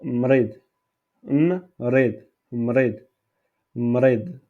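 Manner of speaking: Mrid Mrid, each with a trilled R and falling close; rolled R drilled. Shown as a demonstration. Teacher repeating the word for the class, R trilled. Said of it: "cette R comme".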